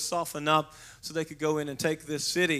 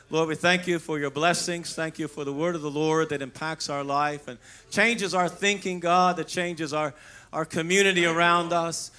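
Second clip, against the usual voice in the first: raised, earnest pulpit prayer; praying aloud; 3 dB louder than usual. Acted. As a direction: pray it out over the church. Leads an opening prayer.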